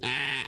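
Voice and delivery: imitated throaty bleat; mock alpaca noise. Comedian voicing the alpaca in a nursery rhyme, throaty bleat. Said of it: "and the alpaca went".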